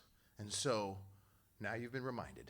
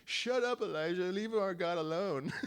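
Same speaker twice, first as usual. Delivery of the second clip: mock angry retort; 7 semitones higher, 3 dB louder than usual. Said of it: "getting mad at him".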